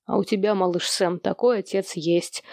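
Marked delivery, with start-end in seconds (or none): none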